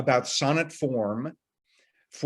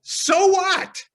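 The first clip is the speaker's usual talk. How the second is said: much higher, louder, scoffing; dismissive so what; 5 dB louder than usual. Acted. Bored student shrugging off sonnet form, loud scoffing. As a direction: toss it off as pointless. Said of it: "This is not a personally relevant connection".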